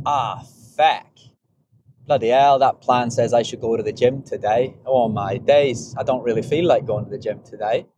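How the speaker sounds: a light put-on British accent, grumbling; changed accent. Runner groaning to himself about the gym, in a light British accent. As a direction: mutter it in a mild mock British accent. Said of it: "I don't know why I'm changing my accent".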